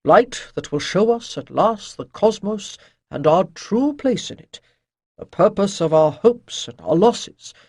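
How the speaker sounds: lightly voiced priest, earnest and emphatic; priestly teacher.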